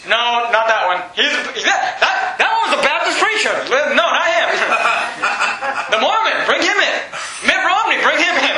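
high, laughing mock voice picking souls; hammed-up gatekeeper, chuckling through it; mock Joseph Smith. Joseph Smith at heaven's gate.

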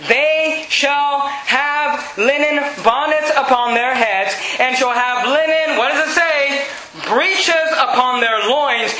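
drawn-out, deliberate Bible reading; slow scripture reading. Acted. Preacher reading the verse aloud to the congregation, slow and weighty. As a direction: read each word of the verse slowly.

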